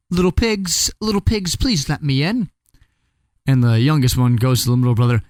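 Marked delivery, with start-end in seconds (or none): 0.1-2.5 coaxing wolf. Acted. Wolf coaxing at stick house.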